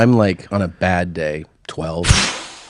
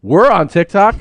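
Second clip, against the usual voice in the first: excited high exclaim; 11 semitones higher, 8 dB louder than usual. Retold or imitated. Excited reply while drinking.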